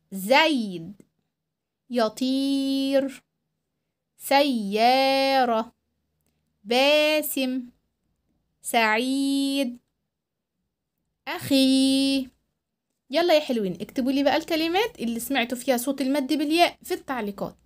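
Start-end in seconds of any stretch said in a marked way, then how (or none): 1.9-12.3 each word read slowly, the ee stretched; slow stretched word list; dictation with long ee. Shown as a demonstration. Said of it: "أنا هقرأهم".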